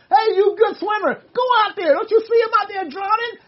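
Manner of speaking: imitating yelling at a swimmer to go rescue a drowning man; retold yell. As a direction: call out urgently from the shore, half acted. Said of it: "yelling at this guy going".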